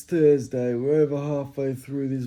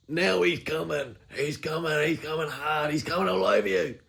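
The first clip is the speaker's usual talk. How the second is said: hype build; 3 semitones higher than usual. Pretend. Hyping Spartan Sawyer's arrival.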